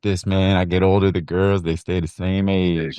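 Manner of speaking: a hint of a laid-back Texan movie star; Matthew McConaughey impression. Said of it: "Matthew McConaughey of, like, Colorado".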